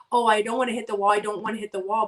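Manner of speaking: rushed, fretful repetition; quick burst of pretend dread; mock panic. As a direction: blurt it like a worried driver. Imagined driver dreading the wall.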